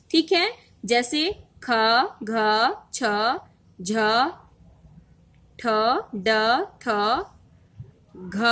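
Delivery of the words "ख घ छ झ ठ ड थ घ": letters like ख and घ, puffed with breath; aspirated consonants. Shown as a demonstration. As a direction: recite each letter separately, with more air. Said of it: "उच्चारण में श्वास वायु अधिक मात्रा में".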